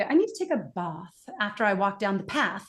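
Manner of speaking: broad British "ah" in bath, American short "a" in path; mixed British and American vowels. Shown as a demonstration. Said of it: "just try not to mix them up".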